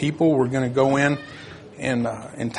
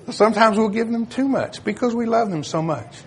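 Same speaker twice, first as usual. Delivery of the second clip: laughing; 7 semitones higher than usual. Real, not acted. Laughing after grandkid joke.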